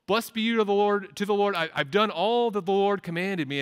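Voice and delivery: high, loud, overjoyed proclamation; boastful Saul. Acted. Preacher voicing Saul boasting to Samuel, high and loud. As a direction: crow it out like a proud king.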